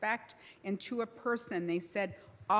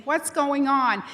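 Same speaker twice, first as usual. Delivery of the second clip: higher, louder and slow, a boss wondering what's up; puzzled boss calling over; 6 semitones higher, 9 dB louder, slower than usual. Retold or imitated. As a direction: call across the site, baffled and drawn out.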